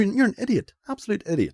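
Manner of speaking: high, loud, exasperated scolding; exasperated outburst. Retold or imitated. Host retelling his reaction to a cancellation, exasperated. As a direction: hurl the insult in mock outrage. Quoting own angry reaction to character.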